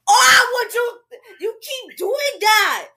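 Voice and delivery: high, wailing outburst; exasperated protest. Pretend. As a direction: cry out in mock outrage, high-pitched. Playful protest at the friend.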